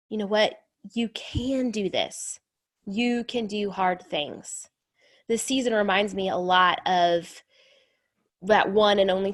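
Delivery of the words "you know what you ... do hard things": slow, soft encouragement; reassuring. Real, not acted. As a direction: say it slowly and gently.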